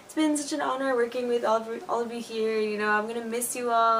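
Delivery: mildly mock-tearful farewell; imitated crying. Saying goodbye to school colleagues, mildly mock-tearful. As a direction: lightly imitate a choked-up goodbye. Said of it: "and just crying".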